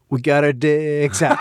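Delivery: slow, laughing through the line; laughing quote. Retold or imitated. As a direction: quote the song while cracking up. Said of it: "the computer goes".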